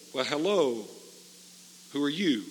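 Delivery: put-on just barely get the words out, like a sick old man; weak voice. Preacher imitating the dying man's weak greeting, lightly voiced. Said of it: "a very weak voice said".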